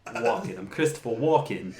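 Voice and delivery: halting celebrity impression, amused; Christopher Walken. Podcaster regaining a lost Walken accent, amused impression. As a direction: find the impression through a laugh. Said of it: "I lost my Walken accent".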